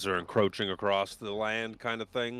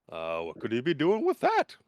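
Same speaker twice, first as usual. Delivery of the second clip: villain musing; 6 semitones higher, 4 dB louder than usual. Acted. GM voices Soth's musing.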